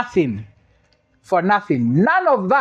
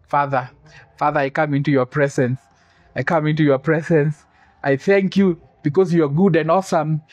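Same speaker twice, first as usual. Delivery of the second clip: lower, mock solemn churchy voice; mock pious prayer; 4 semitones lower than usual. Preacher mimicking boys praying stiffly, mock solemn. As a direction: ham up a stiff formal prayer. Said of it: "coming to me".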